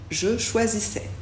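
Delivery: "choisissais" finissant en è, S muet; S final muet. Shown as a demonstration. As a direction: articule "choisissais" avec une finale en è. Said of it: "A I, on prononce est, et on ne prononce pas le S". (« choisissais » avec AI dit è, sans S)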